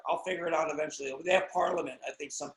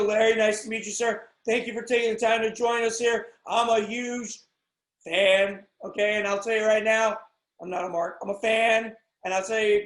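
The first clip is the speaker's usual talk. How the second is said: mock interviewer take; 5 dB louder than usual. Host thanking Bret on his podcast, louder and eager. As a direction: play the eager fan-host on take two. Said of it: "Take two".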